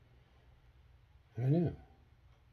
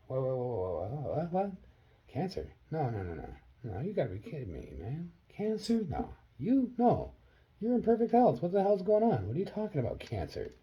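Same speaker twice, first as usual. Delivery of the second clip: high-pitched stunned protest, growing louder; shocked disbelief; 10 semitones higher, 6 dB louder than usual. Retold or imitated. Son reacting to mom's cancer news, shocked disbelief. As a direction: refuse to believe it, voice leaping high, then dropping at the end.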